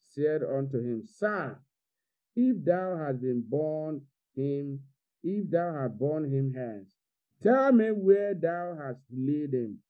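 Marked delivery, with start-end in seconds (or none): 1.1-9.8 lightly voiced pleading woman, slow; Mary pleading. Mary begging the gardener, slow pleading voice. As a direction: draw out Mary's plea slowly. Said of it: "remember it was a woman speaking".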